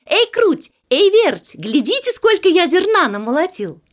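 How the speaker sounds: high, loud hail to two friends; calling out. A narrator's reading. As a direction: shout for them to come and look. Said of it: "и крикнул". (громко кричит, подзывая)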